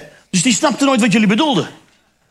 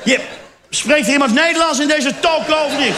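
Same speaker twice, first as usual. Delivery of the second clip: posh student; 5 semitones higher than usual. Pretend. Posh student loses patience.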